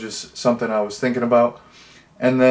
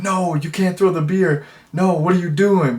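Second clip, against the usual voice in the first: mock protest; 6 semitones higher than usual. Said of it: "he's like".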